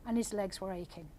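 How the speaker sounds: steady storytelling voice; story narration. A narrator's reading. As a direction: read it like an audiobook. Author reads her story aloud.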